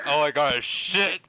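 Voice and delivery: put-on slow, creaky old man. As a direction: imitate a doddering old man. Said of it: "the old man voice".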